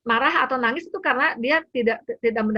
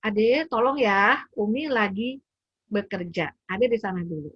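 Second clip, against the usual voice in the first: patient request. Retold or imitated. Mother asking her child to leave her Zoom class, gently. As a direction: calmly ask the child to wait. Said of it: "Terus saya bilang".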